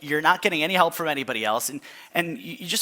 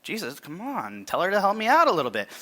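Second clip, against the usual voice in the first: half-joking exasperated plea, speeding up at the end; mock whiny complaint; 4 semitones higher than usual. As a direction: playfully nag Jesus for help. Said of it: "I'd be like".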